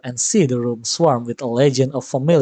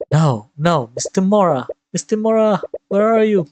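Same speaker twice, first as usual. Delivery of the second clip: frantic calling; 5 semitones higher than usual. Acted. Student searching frantically for teacher.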